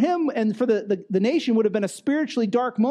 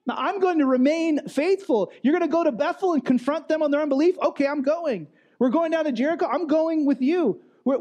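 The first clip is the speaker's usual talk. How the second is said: voiced a good bit higher, eager and insistent; Elisha insisting; 5 semitones higher than usual. Elisha telling Elijah he will follow, higher eager voice. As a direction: play the devoted disciple who won't be left behind, pitched up. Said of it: "Elisha's like".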